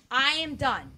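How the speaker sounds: fed up. Retold or imitated. Acts out hitting a wall, fed up.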